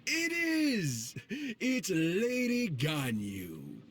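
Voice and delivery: bright high exclaim, slowing on the name; thrilled to spot a famous friend; high-pitched excited recognition; delighted surprise. Acted. Delighted surprise at meeting Ganyu.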